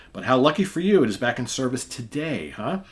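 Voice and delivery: put-on old keeper hinting at a secret; sly cheer. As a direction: sound delighted, with a hidden grin. Old keeper greets the captain.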